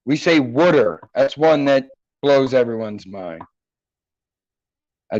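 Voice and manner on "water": "wooder" for water, in Philadelphia speech; Philadelphia accent. Shown as a demonstration. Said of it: "the shitty Philadelphian accent".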